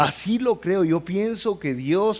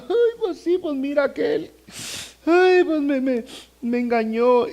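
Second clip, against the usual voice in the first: high, wailing mock sob; mock weeping wife; 9 semitones higher than usual. Preacher imitating the crying betrayed wife, high and wailing. Church woman crying over husband.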